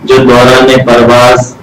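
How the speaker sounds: measured, dignified poem reading; stately nazm recitation. Acted. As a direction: let each line settle slowly. (باوقار نظم خوانی)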